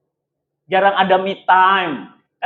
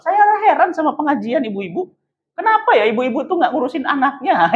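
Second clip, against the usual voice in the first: higher, mock-puzzled complaint; imitated critic; 6 semitones higher than usual. Critic complains about mothers' study groups, imitated. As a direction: quote the critic in a raised, complaining pitch. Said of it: "bilang apa?".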